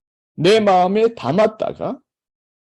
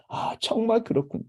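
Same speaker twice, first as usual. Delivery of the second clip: sincere empathy; 5 semitones higher than usual. Shown as a demonstration. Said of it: "그러니까".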